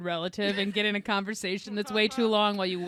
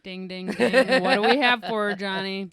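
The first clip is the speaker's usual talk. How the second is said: louder mock game-show announcing; game show host; 5 dB louder than usual. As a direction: play the host revealing a prize.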